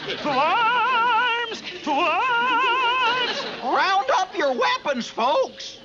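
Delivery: rallying battle cry; calling to arms. Acted.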